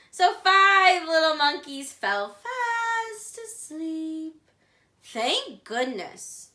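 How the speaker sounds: lively read-aloud picture book voice; storybook reading. Shown as a demonstration. Teacher reading the monkey book to the class, storytime voice. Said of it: "go through it once reading".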